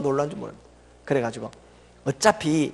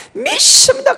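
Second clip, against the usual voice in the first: high, loud preacher's cry; imitating a famous pastor's call; Cho Yonggi's cry; 7 dB louder than usual. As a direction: shout it like a revival preacher. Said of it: "조용규 목사님은 강단에 쌓여서".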